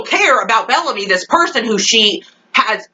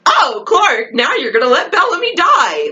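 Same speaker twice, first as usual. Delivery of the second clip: higher, exaggerated reproach; mock indignation; 5 semitones higher than usual. Fan confronting Clark over Bellamy, high mock indignation. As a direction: scold her in a high mocking voice.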